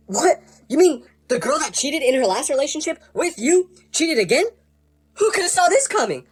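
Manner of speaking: high, sarcastic mock surprise; fake shock. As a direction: pretend to be stunned, overdoing it. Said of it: "pretend to be shocked".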